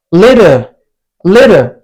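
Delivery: LITTLE said as "li-der", T softened to D; American soft T. Shown as a demonstration. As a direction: tap the T in "little" and end on an R. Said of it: "like a soft D".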